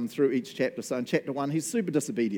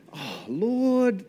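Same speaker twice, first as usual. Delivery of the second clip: Jonah; 8 semitones higher, 5 dB louder than usual. Acted. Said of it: "this is how I read it".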